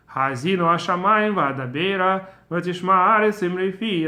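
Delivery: "Ha'azinu hashamayim va'adabera v'tishma haaretz imri fi" recited in an even, rhythmic beat; rhythmic recitation. Shown as a demonstration. Teacher showing the song's rhythm, rhythmic recitation. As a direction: recite the verse in measured rhythm. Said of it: "a very beautiful rhythm".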